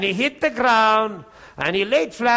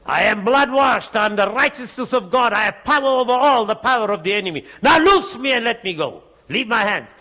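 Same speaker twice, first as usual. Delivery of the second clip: re-enacted forceful rebuke, raised voice; roaring command; 3 dB louder than usual. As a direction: order the devil off with preacher's authority. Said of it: "literally roaring on the inside, needs to just come out".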